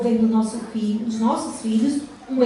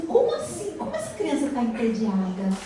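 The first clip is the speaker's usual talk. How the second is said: mock disbelief. Parent's disbelief acted out.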